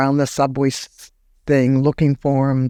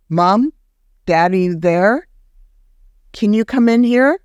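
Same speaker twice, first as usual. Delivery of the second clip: calling out; 6 semitones higher than usual. Retold or imitated. Son on the floor calling his parents, raised higher call. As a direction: call out to Mom and Daddy, not quite a yell. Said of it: "I yell out".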